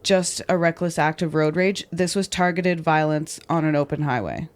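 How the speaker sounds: measured true-crime podcast read; narrating a crime story from a script; scripted story narration. A narrator's reading. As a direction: read the account clearly and deliberately.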